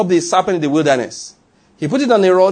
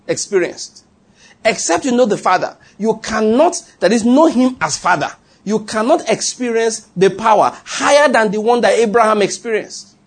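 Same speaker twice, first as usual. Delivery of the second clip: impassioned preacher, pitch lifted; rising preaching intensity; 3 semitones higher than usual. Real, not acted. Preaching climax, raised pitch.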